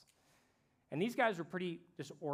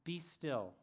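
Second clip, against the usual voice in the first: mildly raised, commanding first word; retold rebuke; 3 semitones higher, much slower than usual. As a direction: rebuke the storm without shouting. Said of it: "He rebuked the wind and the waves".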